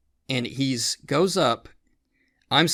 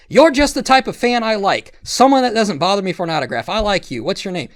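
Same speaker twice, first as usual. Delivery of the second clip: high-pitched impression of a pleased celebrity; imitated YouTuber; 6 semitones higher, 5 dB louder than usual. Storyteller quoting YouTuber greeting a fan, high imitated voice. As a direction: put on his higher voice, loud at first. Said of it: "He's like".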